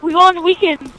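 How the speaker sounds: loud, high mocking echo of a gym bro; taunting copycat voice; mocking imitation. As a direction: parrot his bragging back loud and high. Mocking his gym boast.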